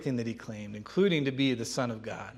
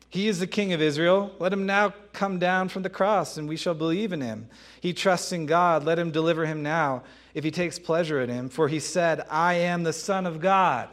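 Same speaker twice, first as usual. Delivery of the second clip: louder, raised reading of the taunt; mocking taunt; 3 semitones higher, 4 dB louder than usual. Chief priests taunting Jesus at the cross, loud mocking read. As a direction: read it as the crowd sneering. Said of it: "were mocking him".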